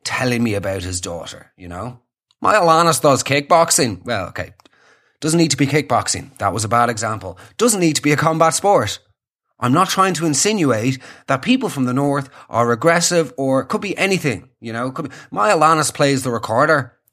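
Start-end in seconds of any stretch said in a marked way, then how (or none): 2.4-4.0 lightly voiced Northern Irish dad; understated Northern Irish accent; stoic Northern Irishman. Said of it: "stoic Northern Irish man". 15.3-17.0 lightly voiced Northern Irish dad; understated Northern Irish accent; stoic Northern Irishman. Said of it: "stoic Northern Irish man".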